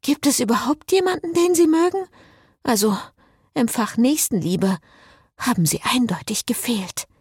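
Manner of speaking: high, feeble taunt; mock him in a high, thinning voice; weak mockery. A narrator's reading. Cécile taunts Frédéric for lacking charity, weakly mocking. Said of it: "Spott klang mit ihrer leisen Stimme schwach".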